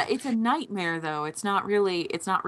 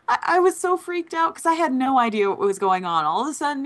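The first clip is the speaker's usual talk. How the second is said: high and loud, retelling a panic; excited; 7 semitones higher, 4 dB louder than usual. Retold or imitated. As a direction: tell it all worked up.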